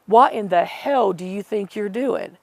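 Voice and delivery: imitating a rude telling-off, measured and emphatic; mildly indignant mock scolding, each word spaced out; retold rudeness. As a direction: quote a rude man, leaning on the words. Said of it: "he was so rude".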